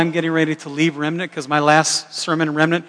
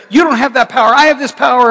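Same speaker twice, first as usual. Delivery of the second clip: higher, louder imitated spouse claiming power; mock quarrel; 6 semitones higher, 5 dB louder than usual. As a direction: play a spouse asserting control. Acted family power quarrel.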